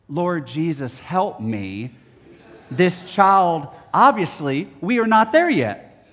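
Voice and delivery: mild mock sigh of a weary father; a touch of a tired dad praying for patience; exasperated dad. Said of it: "as if to say".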